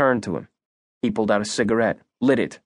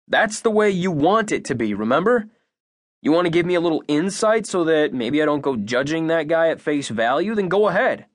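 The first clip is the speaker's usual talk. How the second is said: lightly voiced girl, higher and taunting; Abby, challenging; 6 semitones higher than usual. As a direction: dare him, a hint of a defiant girl.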